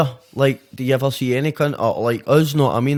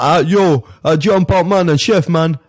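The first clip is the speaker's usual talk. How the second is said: mock English drill; 3 semitones higher, 6 dB louder than usual. Podcast guest putting on English talk, mock English drill. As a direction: put on an English drill rapper voice. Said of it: "what are you gonna talk like?".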